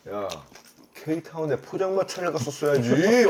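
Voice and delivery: slow, mock-annoyed scolding; imitating angry complaint. Ryan griping at the fancy rooftop bar, mock angry. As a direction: grumble it out like a sulky big brother. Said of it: "나 진짜로 화를 내는 거야".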